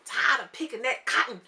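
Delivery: put-on light Southern country accent. Recapping the mom's Mississippi story, country accent. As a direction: retell it in a country twang. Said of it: "this is my country accent".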